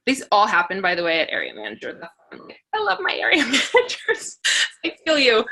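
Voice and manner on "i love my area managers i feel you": breaks into a high laugh mid-line. Real, not acted. Speaker to audience, laughing fondly about her managers. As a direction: giggle through the words with fondness.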